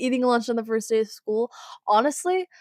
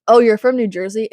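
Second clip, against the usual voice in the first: mock surprise; 10 dB louder than usual. Imitating people reacting to New Jersey.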